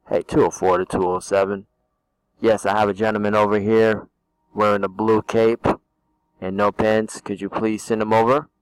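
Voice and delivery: lightly voiced radio dispatcher; a hint of a police radio call. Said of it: "I sound like a dispatcher for the Mecklenburg Police".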